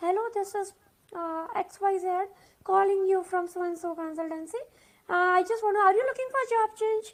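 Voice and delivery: hushed, very soft, slow, drawn-out recruiter voice. Speaker mimics how some girl recruiters make calls, imitating a soft-spoken recruiter. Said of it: "I'm just doing a mimicry of few girls".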